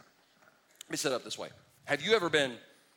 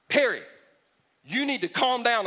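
mock calm down; 5 semitones higher, 4 dB louder than usual. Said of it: "anybody step into my life and go".

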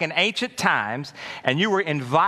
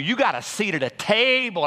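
high excited call; 6 semitones higher than usual. Acted. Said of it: "I said".

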